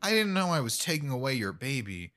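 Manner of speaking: soft, small lonely dog voice; a meek pup with no friends; sad little dog voice. Retold or imitated. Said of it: "The Chihuahua goes".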